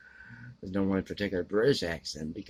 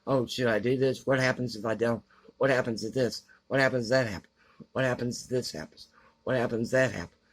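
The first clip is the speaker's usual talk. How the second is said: mock dithering, slightly raised pitch; indecisive dithering; 4 semitones higher, faster than usual. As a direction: imitate her going round and round in indecision. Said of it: "So indecisive".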